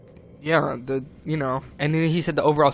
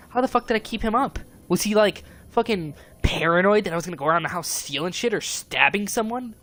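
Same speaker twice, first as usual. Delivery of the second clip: incredulous; 5 semitones higher than usual. Real, not acted. Outraged disbelief at accusation.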